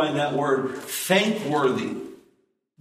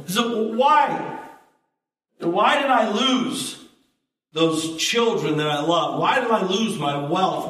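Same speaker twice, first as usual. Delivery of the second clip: raised pleading whys; Job's anguished questions. Acted. Preacher voicing Job crying out to God. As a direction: press each why like a grieving man.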